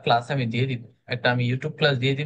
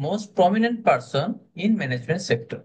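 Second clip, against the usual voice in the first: very slow, "Most prominent" higher, then dropping through "management sector"; rise then fall; 4 semitones higher, much slower than usual. Shown as a demonstration. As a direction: climb up on "Most prominent" and come down after. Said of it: "most prominent আমি উপরে উঠলাম, তারপরে আমি আবার নিচে গেলাম".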